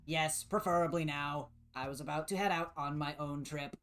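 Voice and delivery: even machine delivery; robot voice. Acted. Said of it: "good robot voice".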